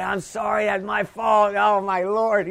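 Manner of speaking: soft-spoken. Retold or imitated. Preacher showing how he apologized to the lady, soft-spoken. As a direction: imitate a meek, hushed apology. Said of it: "I was soft-spoken. I said".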